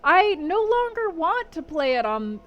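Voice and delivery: lovestruck gushing. Acted. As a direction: lightly play a girl giddy with love. Actress gushing about love, acted.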